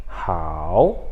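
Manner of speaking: "Hao" bem grave, desce e sobe; terceiro tom. Shown as a demonstration. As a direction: demonstre "Hao" mergulhando e subindo. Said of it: "desce e sobe". ("Hao" grave, com o tom descendo e depois subindo)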